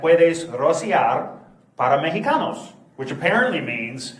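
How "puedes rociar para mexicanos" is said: bad Spanish. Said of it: "And I said".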